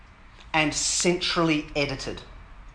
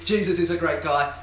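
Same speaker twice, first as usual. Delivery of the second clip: distinctly repeated example message; clear voice. Acted. Anita passing the message on openly, clear voice. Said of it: "say clearly".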